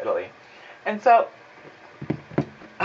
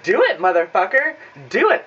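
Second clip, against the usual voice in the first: mock furious dare; 4 semitones higher, 4 dB louder than usual. Daring kid to call CPS.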